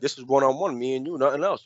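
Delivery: low-key, softly laid-out terms; retold mad cool. Classmate proposing a one-on-one fight, cool and calm. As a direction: imitate him calmly setting terms. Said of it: "he was mad cool about it".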